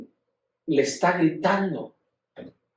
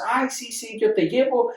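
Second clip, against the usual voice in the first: imitating breezy mother; 3 semitones higher than usual. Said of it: "y entonces".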